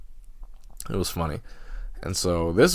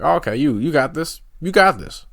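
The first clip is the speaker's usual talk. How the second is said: higher, lightly imitated cheering-on; encouraging friends; 7 semitones higher, 4 dB louder than usual. Friends passing him on the hill, lightly voiced encouragement. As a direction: imitate buddies egging someone on.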